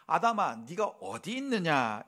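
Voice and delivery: scolding tone. Shown as a demonstration. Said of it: "나무라는 투로".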